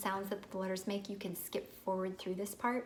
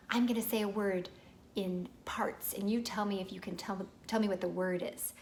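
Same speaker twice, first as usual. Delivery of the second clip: teacher explaining a game. Shown as a demonstration. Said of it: "You're gonna say".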